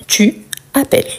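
careful, separate "tu" before "appelles"; full pronunciation. Shown as a demonstration. Teacher shows learners the written form "tu appelles", full pronunciation. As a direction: say "tu appelles" with the u of "tu" kept. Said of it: "Donc, on dit, tu appelles".

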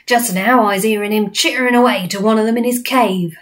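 lightly voiced coarse giant, accusing; blood bottler giant. Giant telling on the BFG, lightly voiced. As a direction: tattle like a brutish giant.

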